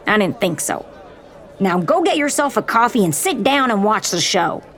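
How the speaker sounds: high, brisk commanding voice; dismissive officer. Acted. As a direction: wave him off with authority.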